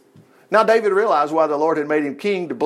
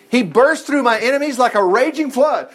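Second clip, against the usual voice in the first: proclaimed; 6 semitones higher, 3 dB louder than usual. Shown as a demonstration. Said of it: "Just do what David did".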